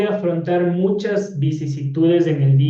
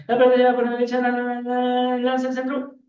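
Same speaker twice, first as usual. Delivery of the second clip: high-pitched monotone football commentary patter; football commentator; 7 semitones higher, faster than usual. Retold or imitated. Teacher showing students how football announcers talk, imitated commentator voice. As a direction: rattle it off like a match commentator, pitch held high. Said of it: "Cómo harán los narradores de fútbol".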